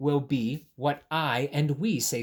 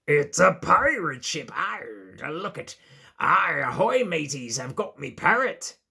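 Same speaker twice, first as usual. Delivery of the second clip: pirate voice; 4 dB louder than usual. Pretend. Bunny plays pirate.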